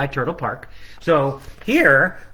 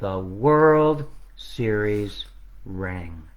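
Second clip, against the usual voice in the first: slowing carol finale; much slower than usual. Acted. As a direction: wind it down gently.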